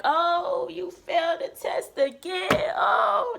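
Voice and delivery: mocking a dramatic teacher, high and loud; hammed-up teacher who throws fits, ending on a yelled oh. Imitating the dramatic teacher scolding her for failing again. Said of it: "she'll be so dramatic".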